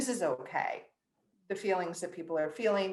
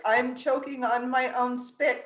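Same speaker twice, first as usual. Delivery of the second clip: slow, louder playful yell; mock yell; 6 semitones higher, 6 dB louder than usual. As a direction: call it out slowly across the store. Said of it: "wanna yell out".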